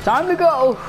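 lightly imitated woman's call; mimicking game character. Player repeating a woman in the game, mimicking. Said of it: "Oh, she said".

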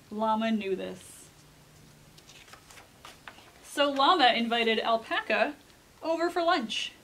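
put-on measured read-aloud to children; storybook narration. A narrator's reading. Reader tells children of Llama's invitation, storybook narration. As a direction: tell it like a picture book, pointing the key words. Reads a picture book aloud.

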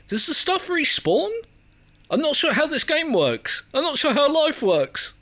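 high-pitched, helpless whine; mock panic. Player lost in a confusing game, squeaky mock panic. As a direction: pitch climbing way up into comic despair.

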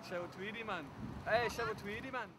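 put-on echoing the Newcastle accent; imitated Newcastle accent. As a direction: playfully copy a Geordie lilt. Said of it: "is that how Cheryl, like, Cole speaks?".

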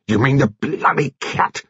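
high, agitated outburst; anguished cry. A narrator's reading. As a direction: blurt it out, distraught. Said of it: "Seiss cried out".

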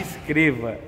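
soft, hoarse sore throat; quiet sign-off through a sore throat. Real, not acted. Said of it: "tô com a garganta inflamada".

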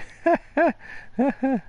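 real bursts of coughing; coughing fit. Real, not acted. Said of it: "stop coughing".

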